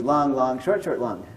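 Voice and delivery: quick SHORT, held LONG, in rhythm; rhythmic recital with stretched LONGs and brief SHORTs; mixed beat pattern. Shown as a demonstration. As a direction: tap out the meter, LONG twice as long as SHORT. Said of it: "a long syllable takes two beats".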